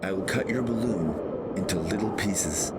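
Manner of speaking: mild yell. Acted. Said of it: "I yelled".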